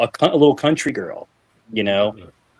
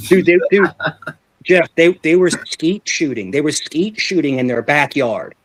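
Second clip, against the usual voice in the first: alarmed retelling; 3 semitones higher than usual. Retold or imitated. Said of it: "I'm like".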